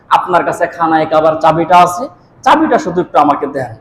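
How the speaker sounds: soft, low, modest asking; retold humble request. Nephew asking uncle for the Kaaba key, softly humble.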